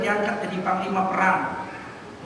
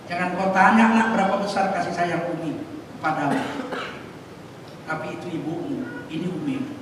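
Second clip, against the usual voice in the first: tender mother; 4 semitones lower, 4 dB quieter than usual. Retold or imitated. Mother tenderly answers adopted child.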